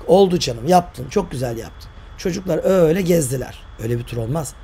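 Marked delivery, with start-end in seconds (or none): 0.1-1.9 slow, dripping mock praise; drawn-out sarcastic "well done, dear". Mocking the teacher's claimed tour.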